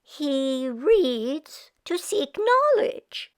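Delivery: slow, proud mother; proud Meshka. Acted. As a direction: praise her son carefully. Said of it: "continued Meshka".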